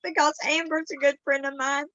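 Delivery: real tearful voice, pitch lifting; choked up while admitting struggle; crying. Real, not acted. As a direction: talk through tears. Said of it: "I'm sorry for crying".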